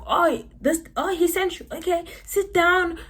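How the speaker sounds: high-pitched welcoming imitation; eager clinic staff. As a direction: act out staff suddenly obliging, voice jumping up. Voices optometrist staff receiving paper.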